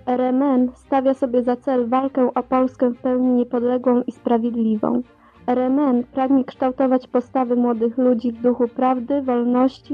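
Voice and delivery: archival underground radio recording; like a worn cassette broadcast. Real, not acted. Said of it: "Archiwalne nagranie".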